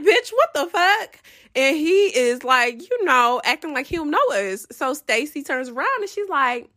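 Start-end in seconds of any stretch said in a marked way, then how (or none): 0.0-1.2 higher, sharp what the fuck; shocked outburst. Retold or imitated. Answering Stacy on spotting him, a high shocked outburst. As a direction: blurt it out in disbelief.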